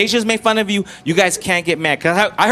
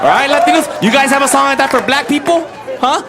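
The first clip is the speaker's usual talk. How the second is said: calling out; 5 semitones higher than usual. Real, not acted. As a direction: call out to the Latinos in the room. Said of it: "calls out to audience".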